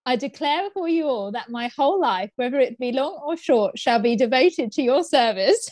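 lightly posh royal reading; a hint of the Queen's solemn pledge; slow regal command. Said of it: "getting that even posher".

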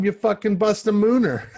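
high-pitched, about to crack up; laughing while talking. Real, not acted. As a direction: let the laugh break into the joke. Joking, breaking into laughter.

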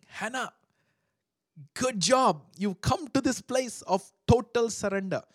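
voicing God, pleased and loud. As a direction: boom out approval as God. God voiced praising Hannah.

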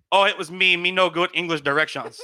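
lightly imitated Vietnamese accent. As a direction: mimic a roommate's broken English with a Vietnamese accent. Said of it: "in the Vietnamese accent".

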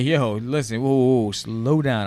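guy backing off from commitment, loudly; mock protest. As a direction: wave her off, whoa whoa. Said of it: "he's like".

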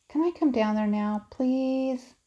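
pleading. A narrator's reading. Sister begging to come down.

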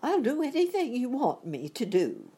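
high, stammering frightened plea; trembling voice. A narrator's reading. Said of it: "said the man in a trembling voice".

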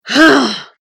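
short loud giant's scoff; loud retort. A narrator's reading. Giant wizard answers a request for transport, retorting. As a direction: throw it back as one burst. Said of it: "retorted the wizard".

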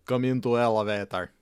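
lightly done Russian man inviting; a hint of a thick Russian accent on "Come into elevator"; mock Russian accent. Russian man in elevator, mock Russian accent. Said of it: "we're like".

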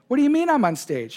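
can't believe he's on stage; incredulous. Retold or imitated. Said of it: "I said".

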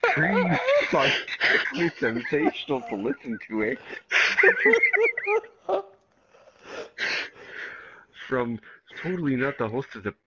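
lisping Canadian, ending on eh; Canadian accent with lisp. Acted. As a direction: lean into the lisp and the eh. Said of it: "read this as a Canadian with a lisp".

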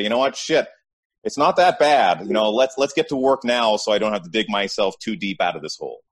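imagined pep talk, lifted pitch and volume; rallying self-talk. Acted. Imagined viewer talking themselves into getting to work, rallying.

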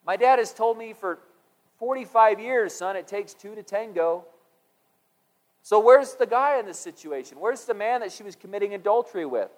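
baffled question. Retold or imitated. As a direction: ask it like it makes no sense. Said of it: "I'm like".

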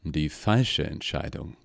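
low, slow amused echo. Acted. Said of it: "erwiderte der Gnädige amüsiert".

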